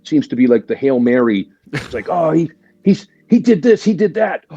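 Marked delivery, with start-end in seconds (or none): 2.1-4.6 much higher, catty tattletale tone; mock gossip voice. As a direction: mimic the people spreading his past. Mocking gossipers about his record.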